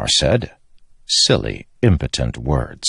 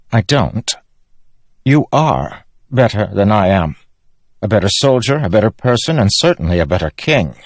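lightly voiced king, a little higher; touch of earnest self-reproach; self-doubting king; 5 semitones higher than usual. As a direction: admit it as the lesser king. Narrator voices Elhokar.

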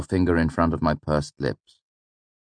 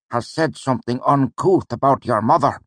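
much higher, put-on teacher voice; a higher character voice for the mentor; voiced old mentor Ben; 9 semitones higher, 4 dB louder than usual. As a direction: play the wry old teacher with mock gravity. Ben's dialogue continues.

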